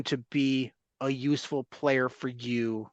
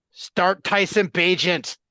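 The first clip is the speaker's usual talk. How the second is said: slow, drawn-out mock yell, a bit louder; mock fan yell; 4 semitones higher, 3 dB louder, slower than usual. Host imitating knee-jerk Bears fans, mild mock yell. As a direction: belt it like a riled-up fan on a call-in show. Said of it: "to just start screaming".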